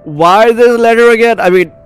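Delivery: high anguished plea; distressed outburst. Acted. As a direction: wail it at the letter. Character distressed by letter.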